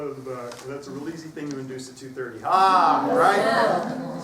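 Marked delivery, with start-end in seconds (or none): 2.4-4.2 yawn. Shown as a demonstration. Inducing a yawn.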